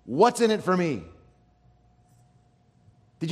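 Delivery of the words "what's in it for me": higher, louder, smug voice; hammed-up smug believer; mock self-satisfied churchgoer. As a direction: play the one who expects a reward. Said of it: "you go".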